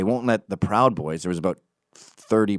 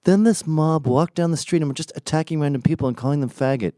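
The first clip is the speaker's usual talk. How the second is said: higher, exaggerated mock-outrage retelling; a mocking take on the opposing side's account; mocking the left's version; 6 semitones higher than usual. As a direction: parody their overblown story. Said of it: "the left is trying to portray it as".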